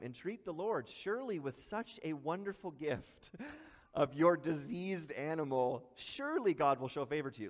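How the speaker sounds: tongue-in-cheek, with a laugh breaking in; mock praise for a worthless gift; sarcastic. Preacher voicing God mocking the diseased offering, lightly sarcastic. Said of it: "he's being kinda tongue-in-cheek here".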